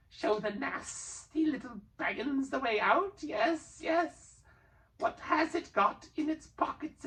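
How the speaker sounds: high, slow wheedling creature; high sly creature voice; sly Gollum. A narrator's reading. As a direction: dodge the promise slyly.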